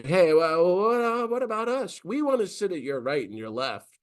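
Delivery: a touch of a needy disciple asking for favours; eager disciples asking. Retold or imitated. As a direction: ask like an eager kid wanting the front seat. Disciples ask for seats of honour.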